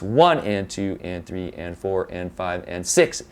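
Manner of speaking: even count in a group of six, "one" leading; six-beat emphasis. Shown as a demonstration. Teacher showing six four time, stress on "one". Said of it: "it's a matter of where the emphasis is".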